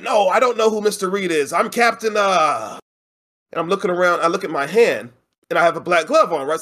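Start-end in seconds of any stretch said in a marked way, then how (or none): 0.0-2.8 flustered pirate. Retold or imitated. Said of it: "I'm like".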